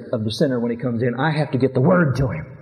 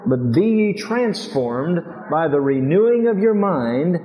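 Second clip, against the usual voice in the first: slow, drawn-out group recitation, every phrase stretched; broad singsong kids theatre; 3 semitones higher, slower than usual. Shown as a demonstration. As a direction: lead the church through it slowly. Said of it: "Can you say it with me?".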